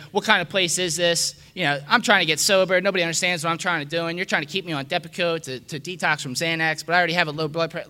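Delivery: freaking out. Retold or imitated. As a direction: storm in and rant at the counselor. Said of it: "I'm just freaking out".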